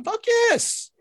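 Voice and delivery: emphatic yes. Real, not acted. Emphatic answer to own question.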